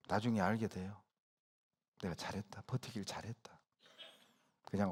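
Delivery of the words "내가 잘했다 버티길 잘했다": whisper. Acted. Whispered inner voice.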